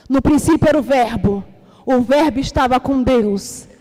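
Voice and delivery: usual speaking voice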